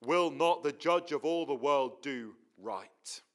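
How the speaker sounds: slow, weighty question; rhetorical question. Retold or imitated. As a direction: lean on every word, slowly. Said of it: "with the rhetorical question".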